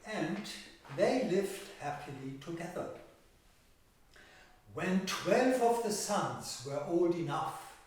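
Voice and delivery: measured fairy-tale narration with stretched key words; storytelling to children. Acted. Telling children of thirteen brothers and an old woman, storytelling. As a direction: tell it to young listeners, leaning on the pictures.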